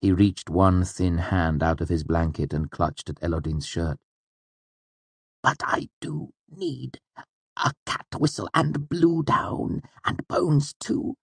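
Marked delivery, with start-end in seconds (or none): 5.4-11.1 high, slow and hushed pleading; clutching at him as he asks; urgent. Acted. Wynne clutches Elodin's shirt and urgently asks for things. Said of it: "His tone was urgent".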